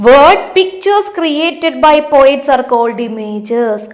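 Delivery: reading the question out very slowly; slow, deliberate classroom read-aloud; slow textbook reading. Acted. Teacher reads textbook sentence.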